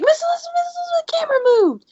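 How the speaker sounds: put-on high, childlike urgent call ending in a whisper; high-pitched kid tattling, then whispering; imitating a kid. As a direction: tug at the teacher's sleeve, scared. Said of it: "one of the kids was like".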